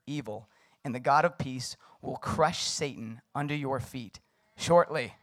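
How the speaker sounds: measured, deliberate Bible reading; scripture reading. A narrator's reading. Preacher reading Romans to listeners, measured scripture reading. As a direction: read the verses out with weight on key words.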